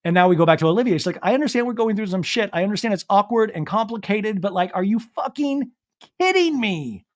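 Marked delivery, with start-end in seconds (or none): 1.2-7.1 higher, exasperated retelling; mock distraught, pitched up to the end; imitated hyperventilating upset. Recapping Olivia upset at Venita, imitated exasperation. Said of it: "Still hyperventilating".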